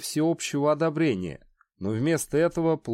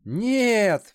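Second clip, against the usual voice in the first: higher, louder desperate shriek; panicked trapped animal; 8 semitones higher, 4 dB louder than usual. Acted. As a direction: scream no in terror. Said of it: "визжал предатель".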